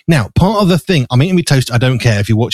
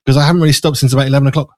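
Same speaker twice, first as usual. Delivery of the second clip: slightly winded, fast and breathless; out of breath; much faster than usual. Real, not acted. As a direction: rush it out, a little short of breath. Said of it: "I'm slightly out of breath and I'm eating my toast".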